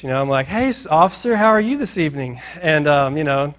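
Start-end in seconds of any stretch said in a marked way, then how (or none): 0.5-2.4 higher, mock-polite greeting; game face. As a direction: put on your game face for the officer. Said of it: "I'm putting on my game face".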